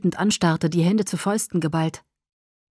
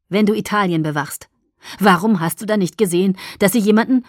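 angry pressing; 5 dB louder than usual. Acted. Edward presses in argument.

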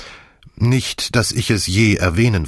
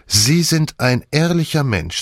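approving; 7 semitones higher than usual. A narrator's reading. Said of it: "sagte Misses Croft anerkennend".

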